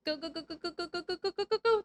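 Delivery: quick little rising go-go-go; urgent urging. Real, not acted. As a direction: urge it on under your breath, rising steadily. Urging on during tense gameplay.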